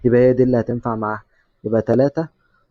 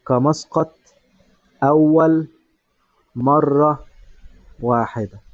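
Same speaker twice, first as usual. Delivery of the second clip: slow dictation; slower than usual. Shown as a demonstration. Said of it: "ممكن تقول له".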